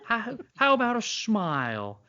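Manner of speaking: high-pitched, thick mock Cockney; Cockney accent. Brother teasing sister's English boyfriend, thick Cockney. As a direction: ham up the Cockney. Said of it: "laying it on thick".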